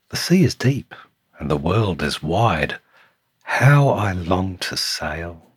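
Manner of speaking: long for the open sea; longing snail. Acted. Tiny snail dreaming of sailing, lightly acted longing.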